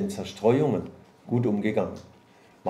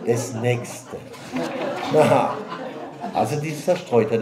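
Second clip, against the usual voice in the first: chuckling through the words; amused, laughing aloud; a laugh breaking into the line; 5 dB louder than usual. Real, not acted. Preacher laughing at his list.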